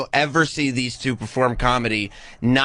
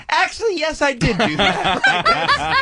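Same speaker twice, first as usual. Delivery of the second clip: mock confession; slower than usual. Mocking friend's sudden reversal.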